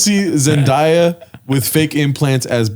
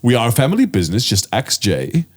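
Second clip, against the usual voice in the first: mock ominous boss; 3 semitones lower than usual. Mock ominous family business line.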